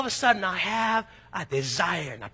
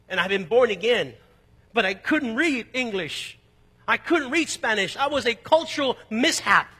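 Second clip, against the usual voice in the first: rising frustration; 4 dB louder than usual. Retold or imitated.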